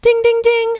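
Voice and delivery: high, loud ding ding ding; alarm chime. Retold or imitated. Announcing the shocking damage charge notification, high loud chime. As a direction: ring it out like an alert going off. Imitating phone alert for charge.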